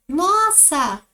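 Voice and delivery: "Nossa!" alto e agudo, caindo no fim; exclamação. Shown as a demonstration. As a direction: solta um "Nossa!" espantado e forte. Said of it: "Pontinho de exclamação". ("Nossa!" exclamado com espanto)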